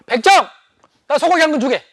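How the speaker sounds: curt, loud order to the butcher; rough arrogant noble. Acted. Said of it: "아주 거칠게 말을 했습니다".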